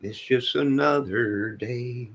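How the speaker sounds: "It's just another day" slowly stretched, the word "another" leaned on; slow, drawn out. Shown as a demonstration. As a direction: let "another" sag slowly. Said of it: "says it twice, second slower".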